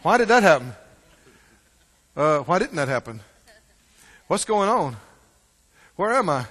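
mild mock confusion; confused person. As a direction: play someone lost and bewildered. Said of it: "You're like".

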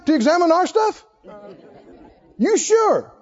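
sarcastic challenge. Acted. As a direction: needle the judges with mock concern. Preacher rebuts critics.

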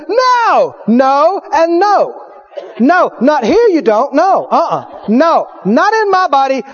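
high repeated No; defiant refusal. Pretend. Believer refusing sickness in their body, high and defiant. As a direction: refuse firmly.

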